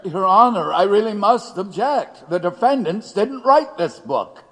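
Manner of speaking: agitated objection; urgent objection. Acted. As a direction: plead hard with the judge. Defense lawyer objecting urgently.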